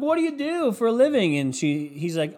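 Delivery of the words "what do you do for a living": high-pitched imitated woman; mock flirty questioner. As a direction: pitch it up as a lady chatting someone up. Acts out woman's question in bar.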